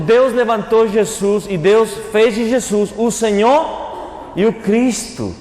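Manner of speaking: normal talking voice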